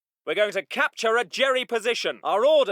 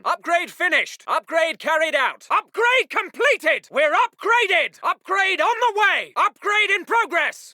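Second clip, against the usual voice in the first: officer calling out progress, raised voice; upbeat announcement. Acted. Officer reporting upgrade to chaps, keen and hearty. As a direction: announce it proudly to the squad.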